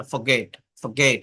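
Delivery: ফরগেট said low, the r almost silent; low teaching demo of ফরগেট, r swallowed; demonstrated soft r. Shown as a demonstration. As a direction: demonstrate ফরগেট with a barely sounded r. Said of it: "এইভাবে বলে".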